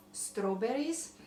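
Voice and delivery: "Strawberries" drawn out slowly in a light Croatian accent, rising at the end. Real, not acted. Tasting her cake on camera, slow light Croatian accent. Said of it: "My Croatian accent is just coming out".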